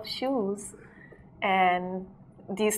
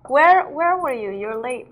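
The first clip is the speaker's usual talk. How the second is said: mock DJ teacher; 5 semitones higher, 6 dB louder than usual. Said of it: "Reborn is like".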